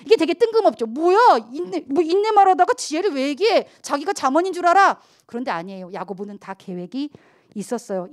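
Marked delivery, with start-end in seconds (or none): 0.8-5.0 mock skeptical reader. Mock skeptic reacting to text.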